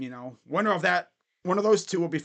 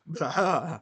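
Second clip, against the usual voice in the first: short laugh. Real, not acted. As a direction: laugh briefly at a brutal loss. Reacting to a brutal loss.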